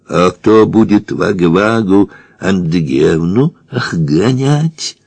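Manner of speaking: Варвару and Андреевну with throaty French r; burred r. A narrator's reading. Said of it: "Укоризненно прокартавил Девре".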